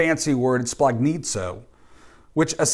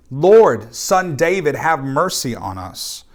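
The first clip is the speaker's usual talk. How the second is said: mock shouting; 4 dB louder, slower than usual. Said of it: "they began shouting".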